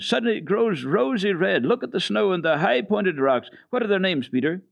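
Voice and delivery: high, loud thrilled cries; girl crying out in great excitement at the sunset. Acted. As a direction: point it out, bursting with wonder. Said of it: "cried Heidi in great excitement".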